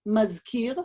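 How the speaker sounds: Mazkir said slowly, one clear syllable at a time; staccato. Shown as a demonstration. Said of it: "I'll say it, you repeat it".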